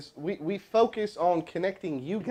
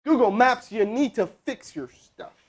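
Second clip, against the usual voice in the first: loud higher call, then slow scolding; exasperated callout to Google Maps; 5 semitones higher, 4 dB louder, slower than usual. Real, not acted. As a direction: call out to the app and scold it slowly. Calling out at the app.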